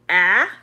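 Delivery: short A sound on "ah", as in cat; short vowel. Shown as a demonstration. Teacher showing learners the short A, short vowel. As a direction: model "ah" alone as a short A. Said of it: "Short would be".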